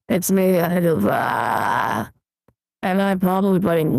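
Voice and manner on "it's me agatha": put-on slow, low old granny voice. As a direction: drawl it out like a granny. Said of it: "I'll get rid of Granny voice".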